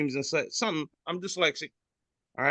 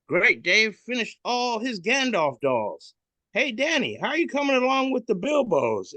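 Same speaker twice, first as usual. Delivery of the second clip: Santa voice; 10 semitones higher, 4 dB louder than usual. Retold or imitated. Santa checking on the elves, high and cheery. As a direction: check on the workers like a jolly boss. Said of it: "And he says".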